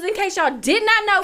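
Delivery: loud, high hype announcer call. Shown as a demonstration. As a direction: belt it like a fight announcer. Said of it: "let me get my announcer voice on".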